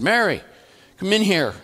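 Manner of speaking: high, loud call to the next room. Retold or imitated. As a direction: call her in from another room. Charlie calls wife from room.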